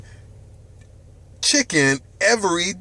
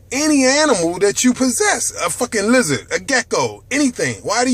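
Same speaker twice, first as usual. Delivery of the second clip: louder and higher with each question; building rant; 6 semitones higher, 4 dB louder than usual. Real, not acted. Host ranting at viewers about soda, loud and climbing. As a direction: hammer the questions home, rising.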